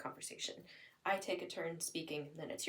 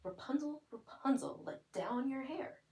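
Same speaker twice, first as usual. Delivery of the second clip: prince calling up the tower; 7 semitones higher than usual. Acted. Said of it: "He says".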